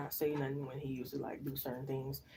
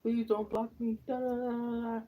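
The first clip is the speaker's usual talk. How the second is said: mock panic; 8 semitones higher, 4 dB louder than usual. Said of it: "And he, like, panicked".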